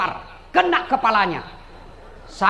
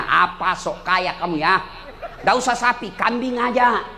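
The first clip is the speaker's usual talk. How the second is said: scoffing wife; 4 semitones lower than usual. Acted. Stingy wife scoffing at husband.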